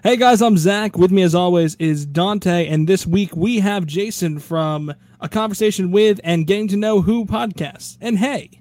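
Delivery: slightly pompous podcast host intro; a touch grander, like a show announcer. Acted. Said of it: "I need to get my announcer voice going on".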